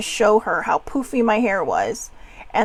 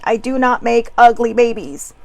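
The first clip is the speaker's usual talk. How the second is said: mom's saying; 5 dB louder than usual. Retold or imitated. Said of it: "what my mother always says".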